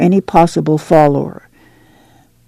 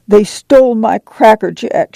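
put-on raised, tearful child's complaint; tearful cry; 5 semitones higher than usual. Ruthie crying to Ma about her stolen treat, tearful. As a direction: wail it like a hurt little girl. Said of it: "she cried".

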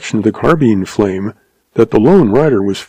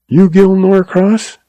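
weak; 9 semitones higher than usual. A narrator's reading. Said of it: "he asked weakly".

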